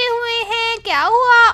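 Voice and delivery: loud startled what happened; wife surprised to find her husband on the floor; surprised question. Acted. Wife finds husband sitting, smoke.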